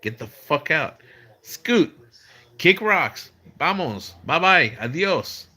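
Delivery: acting out shooing people off, rising in pitch. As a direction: re-enact an increasingly insistent get-lost. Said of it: "raising my voice".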